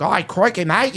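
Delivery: lightly put-on Aussie accent; mock Australian accent. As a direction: imitate a stereotypical Australian. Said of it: "start being like".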